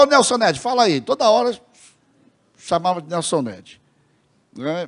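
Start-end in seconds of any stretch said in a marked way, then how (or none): 0.0-1.0 higher, louder jokey call; mock-hailing someone by a nickname; playful teasing. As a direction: imitate a host teasing his guest. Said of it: "Aí ele começou a brincar".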